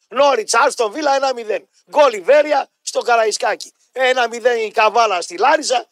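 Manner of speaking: measured, mocking score announcement; mock results reader. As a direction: read scores out to belittle the job. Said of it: "θα τα πει τα αποτελέσματα". (κοροϊδευτική εκφώνηση αποτελεσμάτων)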